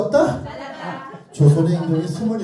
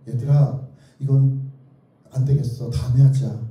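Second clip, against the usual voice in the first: mock giving up; 6 semitones lower than usual. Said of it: "이번 문제는 너무 어려워서".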